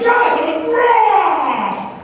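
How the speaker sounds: high, very loud triumphant roar; roaring cheer. Retold or imitated. Coach to workout partner at the slams, roaring cheer. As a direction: re-enact yelling your partner on.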